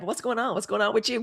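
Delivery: low, soft "What's going on?"; soft mock male voice. The man on the phone answering Carrie, low and soft. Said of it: "he was like".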